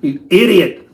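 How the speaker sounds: high, loud jab at himself; a hammed-up self-rebuke; mock self-scolding. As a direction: call yourself an idiot, laughing at your own mistake.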